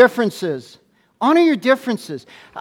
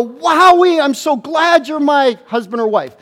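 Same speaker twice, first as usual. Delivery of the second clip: joyful wowee; 3 semitones higher, 4 dB louder than usual. Shown as a demonstration. Pastor modelling what couples should say: loud happy wowee. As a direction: show them how to cheer for a spouse. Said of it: "turn to them and go".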